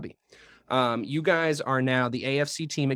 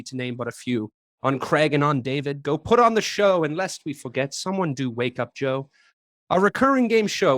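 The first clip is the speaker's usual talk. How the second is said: hammed-up English accent reciting a rhyme; put-on English accent, Christmas-poem cadence; a bad English accent played for laughs. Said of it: "that accent sucked".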